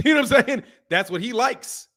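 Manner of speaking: said through a real laugh. Real, not acted. Joking to listeners about cousin Andre's taste, laughing. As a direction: laugh as you make the point.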